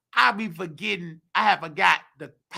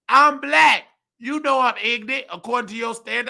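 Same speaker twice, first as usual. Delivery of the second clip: sarcastic retort; 3 semitones higher, 4 dB louder than usual. Retold or imitated. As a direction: throw it back at him with scorn. Sarcastic retort to white coworker.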